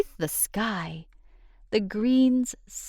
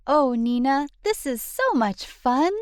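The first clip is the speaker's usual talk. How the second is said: put-on excited child; 7 semitones higher than usual. Child character calling out in story.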